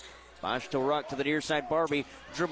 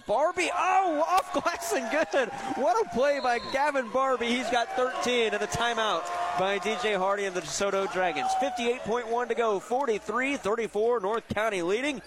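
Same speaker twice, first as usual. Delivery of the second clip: much higher, louder, roaring the basket; excited play call; 8 semitones higher, 3 dB louder than usual. Real, not acted. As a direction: erupt as the shot falls. Big basket called live.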